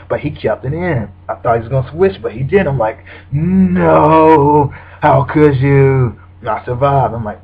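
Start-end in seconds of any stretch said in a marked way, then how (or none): 3.3-6.2 mock outrage. Mock dismay at opponent's move.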